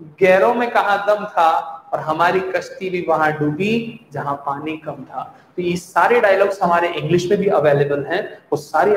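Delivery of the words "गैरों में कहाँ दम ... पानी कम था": lightly dramatic couplet reading; filmy shayari recital. Shown as a demonstration. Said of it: "Hindi में इसका dialogue". (हल्के फ़िल्मी अंदाज़ में शायरी)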